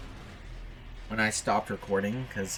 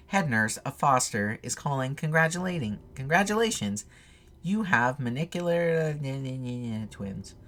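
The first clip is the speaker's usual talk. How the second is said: put-on young nurse on phone; 4 semitones higher than usual. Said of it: "The voice of a young woman sounded".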